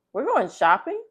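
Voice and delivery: high, loud, eager question; light up at the idea of shopping; excited child. Acted. Molly asks her mom about shopping, excited and high.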